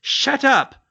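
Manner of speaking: very loud, high yell. Acted. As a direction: bark it at him. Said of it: "Neville yelled".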